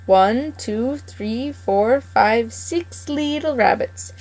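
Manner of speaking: put-on old gardener counting his catch with glee; gloating farmer counting. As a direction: savour each number like a greedy old farmer. Mr McGregor counts again, chuckling.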